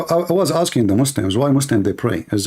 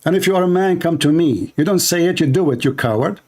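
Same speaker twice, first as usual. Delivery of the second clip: angry; 5 semitones higher than usual. Real, not acted. Shouting back at threatening caller.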